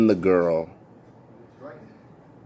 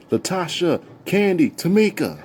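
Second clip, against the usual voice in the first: calling out names; 8 semitones higher than usual. Retold or imitated. Calling friends for help.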